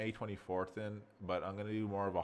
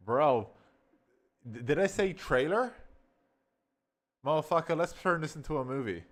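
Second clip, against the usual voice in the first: loud, higher, fired-up swearing; suddenly hyped and loud about the idea; loud excited cursing at the discovery; excited outburst; 6 semitones higher, 8 dB louder than usual. Real, not acted. Realizes three minutes, gets hyped.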